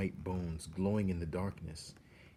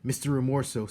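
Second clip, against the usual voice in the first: crying; 6 semitones higher, 6 dB louder, faster than usual. Acted. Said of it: "And he was crying now".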